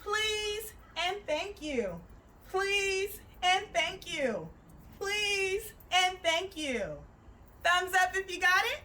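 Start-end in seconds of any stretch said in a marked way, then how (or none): 0.0-6.8 slow singsong. Shown as a demonstration. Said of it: "you're gonna say".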